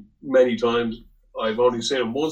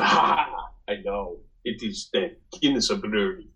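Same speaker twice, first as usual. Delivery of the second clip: lightly put-on Italian accent; mock Italian-accented English, a knowing laugh first. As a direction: imitate an Italian sure he has the answer. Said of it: "uh, Italian guy".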